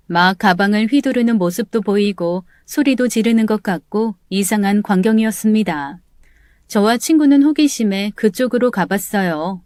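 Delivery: ordinary delivery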